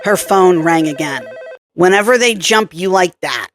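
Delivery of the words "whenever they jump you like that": nasal New York accent, lightly voiced; a hint of a nasal New Yorker. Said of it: "said the nasal voice with the New York accent".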